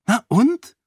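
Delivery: high, loud, quick retort; defiant. A narrator's reading. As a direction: throw it back defensively, voice jumping up. Defends her painting when challenged. (trotzig, hoch und laut)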